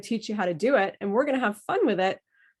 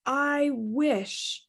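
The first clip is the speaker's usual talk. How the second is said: wistful; 4 semitones higher than usual. Shown as a demonstration. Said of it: "So when I say".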